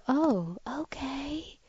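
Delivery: a high, soft whispered "Oh, okay"; mock dog voice, hushed and meek; whispered dog's reply. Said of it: "make them go".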